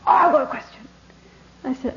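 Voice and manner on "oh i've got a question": put-on higher, cheeky kid asking; mock kid voice. Teacher recalls a cheeky boy asking, lightly voiced. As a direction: play the cheeky kid in the audience. Kid asks mocking question in talk.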